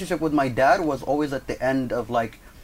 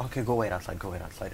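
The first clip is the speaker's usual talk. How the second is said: low, hushed placating repetition; imitating a quiet peacemaker; calming down; 6 semitones lower, 9 dB quieter than usual. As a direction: softly ease someone out of the room. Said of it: "he's trying to calm down my dad".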